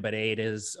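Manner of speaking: "potatoes" said mom's odd regional way; mom's odd pronunciation. Retold or imitated. Son quoting his mom's weird words, "potatoes" in her pronunciation. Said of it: "My mom says all types of weird shit".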